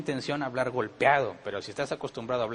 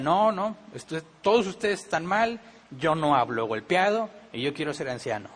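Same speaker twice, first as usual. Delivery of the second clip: loud, high indignant protest that everyone is wrong; defensive outburst at the whole congregation; 3 semitones higher, 4 dB louder than usual. Retold or imitated. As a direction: bristle and push back hard, refusing the verdict. Would-be elder rejects the congregation.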